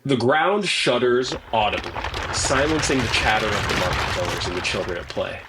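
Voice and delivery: measured dramatic narration; game master's scene setting. Acted. Game master describes the village collapsing in flames, dramatic narration. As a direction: narrate the unfolding disaster with deliberate emphasis.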